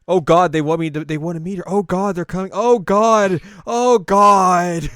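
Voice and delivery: loud, high, escalating panicked cries; hammed-up rising alarm; mock panic. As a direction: play a son frantic at looming parents. Acting Victor panicking about parents' visit.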